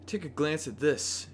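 creepy jester voice. Acted. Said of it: "Why is she all, like, creepy about the note?".

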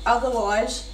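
usual speaking voice

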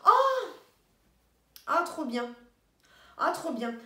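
sudden high, loud "Oh!" of surprise; delighted gasp. Real, not acted. Opening a present, a loud delighted "Oh!".

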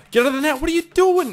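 high, loud frantic yell; panicked shout. Real, not acted.

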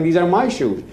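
half-yelled retold protest; retold yelling. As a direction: imitate a man insisting in a quarrel. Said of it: "He's yelling".

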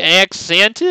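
"Accent" with the last syllable stretched, questioning; extra sound in "Accent". Shown as a demonstration. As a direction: try out "Accent" with an added vowel, rising. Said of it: "An I after the E?".

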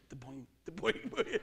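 springy "boing" noises; imitated bouncing. Storyteller mimics his bouncing truck, springy boings. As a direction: bounce the word like a loaded truck. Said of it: "this thing was just like".

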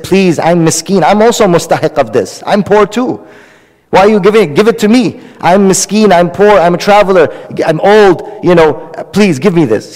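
mildly imploring, piling up the reasons; pleading. Retold or imitated. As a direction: plead like a poor traveler. Poor traveler begs for dates.

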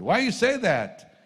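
high, loud and slow indignant retort; upset retort. Retold or imitated. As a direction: fire the question back, offended. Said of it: "I got really upset with him".

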